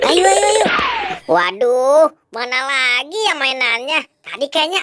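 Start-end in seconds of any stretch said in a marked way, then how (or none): 0.1-0.7 urgent shout. Acted. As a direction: call out loud and fast. Urging the others to run. (teriakan mendesak)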